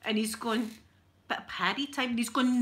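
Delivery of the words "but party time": questioning, imitated Australian accent. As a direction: mimic a confused Australian, voice rising at the end. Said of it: "the Australian man was going".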